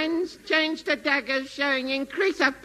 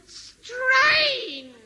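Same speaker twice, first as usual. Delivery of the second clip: straining shout; 9 semitones higher than usual. Acted. Bluebottle willing kilts down.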